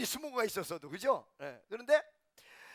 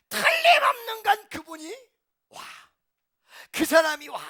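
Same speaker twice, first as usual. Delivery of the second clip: tearful shout; 12 semitones higher, 11 dB louder, slower than usual. Acted. Climax of waiting for him.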